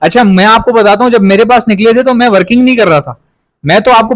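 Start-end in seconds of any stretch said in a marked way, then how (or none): none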